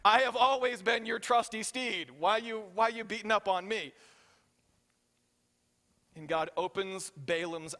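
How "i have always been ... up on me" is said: a lightly voiced hurt donkey; mild playful donkey voice, a touch higher; donkey's voice. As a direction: plead like a wronged pet. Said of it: "but the donkey's like".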